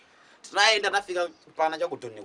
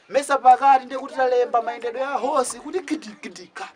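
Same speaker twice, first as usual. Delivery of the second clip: raised, mocking retelling; loud mock scorn; 8 semitones higher, 7 dB louder than usual. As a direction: scoff it out louder. Mocking the writer's horse sound.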